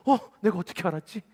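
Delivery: hammed-up astonishment with a laugh; greater surprise. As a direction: act stunned at your own insight. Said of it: "저는 더 놀라요".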